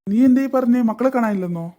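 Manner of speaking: the news hits him hard; shocked. Acted. Father hears his children are missing, shocked outburst.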